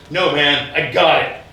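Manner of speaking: brusque refusal. Retold or imitated. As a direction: wave off the help firmly. Man first brushes off offered help.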